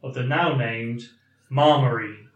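measured read-aloud of a listener's email; deliberate, articulate email reading; slow, clear reading. Real, not acted. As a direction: read the letter out carefully and clearly. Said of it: "I'll read it slowly, yeah, and hopefully clearly".

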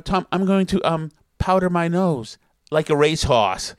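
mock-classy Boston accent, dropped R on racehorse; imitated Boston girlfriend. Girlfriend obeying request to sound classy, imitated Boston accent. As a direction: put on Boston, deliberately poised then crude. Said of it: "this is Nancy's best move ever".

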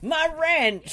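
lightly hammed-up movie quote, high pitch; quoted film line. Commentator echoing the shark scene, mock exclamation. Quoting the film while laughing.

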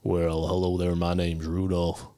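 a tough southern reindeer says hello; tough southern Rudolph. Shown as a demonstration. A Southern accent, for the players. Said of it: "give me the accent again".

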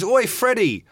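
hammed-up punk jeer; a punk musician calling out. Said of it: "he bursts in and he goes".

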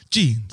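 slow, drawn-out "jeans"; guessed Finnish pronunciation. Shown as a demonstration. Guessing how Finns say it, slow mock-Finnish "jeans". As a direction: draw out "jeans" as a Finn might. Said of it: "vanligt, fast du ut-, uttalar".

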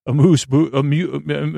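laughing mispronunciation. Real, not acted. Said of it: "my mispronunciations of amuse bouche".

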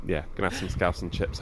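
dropped, half-swallowed repeat; quiet deflated repeat. Acted. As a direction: say it again like an afterthought to yourself. Rob repeats the line, deflated.

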